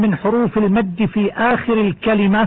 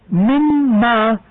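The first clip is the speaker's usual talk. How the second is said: drawn-out demo word; 2 semitones higher, much slower than usual. Shown as a demonstration. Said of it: "يجوز الوقف اضطرارا".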